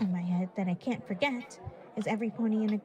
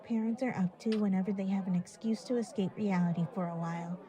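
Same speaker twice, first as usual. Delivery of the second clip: laughing; 12 dB louder than usual. Real, not acted. Laughing while teasing about parents.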